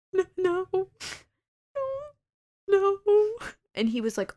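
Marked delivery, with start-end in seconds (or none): 0.1-3.0 high-pitched mock sob on each no; retold sobbing. Telling her boss she's not okay, imitating her sobbing voice. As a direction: imitate herself crying no, no, no. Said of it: "listening to me sob uncontrollably".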